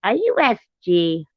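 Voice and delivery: high, loud startled question. Retold or imitated. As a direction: gasp it out like you recognize a legend. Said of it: "they was like".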